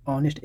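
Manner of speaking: "ऑनेस्ट" starting on the vowel; silent H. Shown as a demonstration. Teacher showing the silent letter, "ऑनेस्ट" without H. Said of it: "एच को छोड़ दीजिए".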